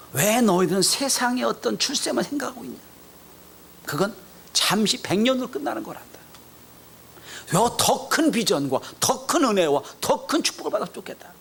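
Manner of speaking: high-pitched, pleading reproach; lamenting. Acted. Jesus laments to James and John over worldly ambition, lamenting. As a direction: lament like a disappointed teacher. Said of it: "한탄한 말씀하시는 거예요".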